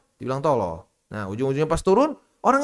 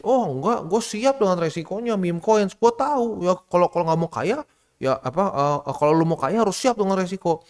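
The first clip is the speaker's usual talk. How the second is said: higher, boastful mock voice; imitating a cocky investor; 5 semitones higher than usual. Mocking the bold investor who claims he's ready for risk. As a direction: parrot the overconfident buyer. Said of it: "ngomongnya kayak begitu".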